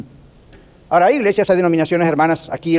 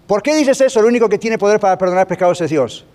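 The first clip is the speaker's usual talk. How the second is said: higher, mildly raised outcry; mock pharisee shout; 4 semitones higher than usual. Pastor voicing the shouting pharisees, mild mock yell. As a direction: retell their protest as a mild mock yell. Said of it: "empezaron a los gritos a decir".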